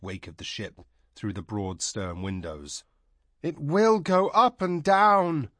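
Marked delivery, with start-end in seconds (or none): 3.4-5.5 high, slow, drawn-out moan. A narrator's reading. Frightened princess moaning to Tanar about the ship, high and slow. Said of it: "she moaned in Kargish".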